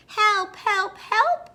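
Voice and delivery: loud, rising high cries; urgent storybook calls for help; crying for help. A narrator's reading. Little blue truck stuck in mud, crying out. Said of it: "cried the little blue truck".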